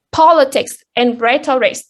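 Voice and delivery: politics stressed on POL, rhetoric on RHET; POL-itics and RHET-oric, first syllables strongest. Shown as a demonstration. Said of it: "the stress falls on the first syllable".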